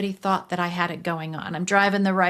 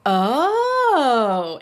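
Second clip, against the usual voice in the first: wise woman's oh; 5 semitones higher, 7 dB louder than usual. Retold or imitated. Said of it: "she goes".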